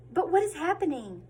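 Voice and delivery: gasp, then ask; gasp of alarm. A narrator's reading. Reader building suspense for the children, gasping.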